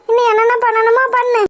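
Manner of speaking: reproachful, through tears; bitter crying. Acted. Mother blaming her son over his wife, crying. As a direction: spit it out while sobbing.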